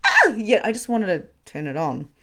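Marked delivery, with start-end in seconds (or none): 0.1-0.3 singer's whoop. Retold or imitated. Whoop after singing.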